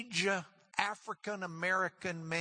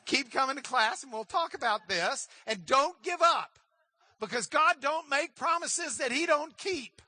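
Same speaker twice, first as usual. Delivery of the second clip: rising, louder preacher's close; preaching; 7 semitones higher, 5 dB louder than usual. Acted. Pastor urging his class not to give up, preaching. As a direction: drive the promise home to the class.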